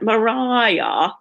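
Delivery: put-on "Mariah" with a Boston accent, r dropped. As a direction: call out "Mariah" in old Boston style. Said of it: "in an old Bo-, Boston accent".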